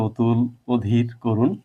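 "অতুল, অধীর, করুণ" as "otul, odhir, korun"; first vowels as o. Shown as a demonstration. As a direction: list "অতুল, অধীর, করুণ", each with a closed o. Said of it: "ও এর মতো উচ্চারণ হচ্ছে". ("অতুল, অধীর, করুণ"-এ অ ও-এর মতো)

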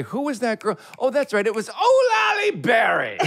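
high, performed question building to a shouted punchline; hammed-up mock recollection. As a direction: act out suddenly remembering, then wail the pun. Acting out the same pun bit.

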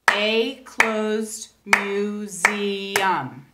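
each syllable spaced out very slowly; clapped syllables. Shown as a demonstration. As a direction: clap out every syllable slowly. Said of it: "if you clap those syllables".

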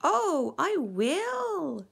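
loud, high, swooping sneer. A narrator's reading. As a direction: sneer it loudly with mock agreement. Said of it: "sneered the shark".

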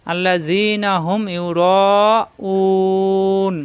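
ইউরাউন with the final উন kept light, no throat pressure; light un ending. Shown as a demonstration. Teacher showing students that ইউরাউন ends with a light উন. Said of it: "উ কোনো চাপ সৃষ্টি নাই, উন হালকা".

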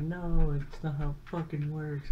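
mock outraged yell, pitched high; high, heated retort, loud at the start; retold yelling. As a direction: imitate a friend screaming back in an argument. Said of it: "He was yelling and screaming".

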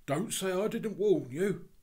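put-on high, loud child calling after someone; warning boy. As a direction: call it out as a parting warning. Boy warns departing policeman.

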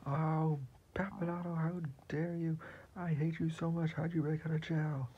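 villain Joffrey raging at his enemy. Acted. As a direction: play the angry villain taunting the hero. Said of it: "He's gonna be like".

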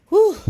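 a winded puff of air blown out; breathless whew. Real, not acted. Vlogger winded after rolling the blanket, breathless whew. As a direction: blow out a tired whew, spent. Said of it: "all out of breath".

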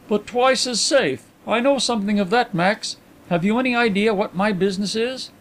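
high-pitched, knowing gentleman; Carlyle. A narrator's reading. Carlyle asking Max about his business, high and animated. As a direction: pitch it well above the narrator.

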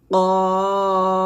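কফ said thick from the tongue root; heavy qaf. Shown as a demonstration. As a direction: give কফ a full, heavy sound. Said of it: "এভাবে". (কফ মোটা করে)

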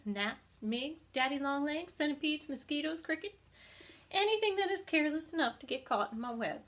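a hint of a matter-of-fact spider listing her food; spider Charlotte. Charlotte the spider explains diet.

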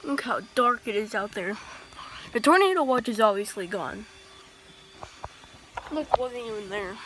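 talking while chewing gum. Real, not acted. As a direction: chew gum as you talk. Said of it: "Yeah, I'm chewing".

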